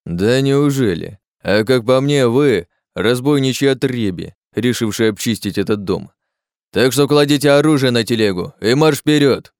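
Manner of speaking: a hostile sergeant barking orders at the travellers; suspicious guard. Acted.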